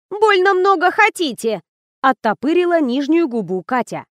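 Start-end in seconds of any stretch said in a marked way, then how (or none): 0.1-1.6 much higher sulky comeback; pouting retort. A narrator's reading. Actress sulkily talking back to the director. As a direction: pout it back at him.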